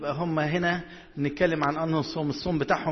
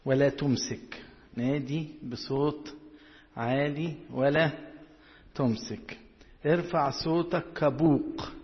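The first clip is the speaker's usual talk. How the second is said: slow, measured verse reading; drawn-out words with deliberate pauses; scripture reading; much slower than usual. Real, not acted. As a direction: read the verse out phrase by phrase.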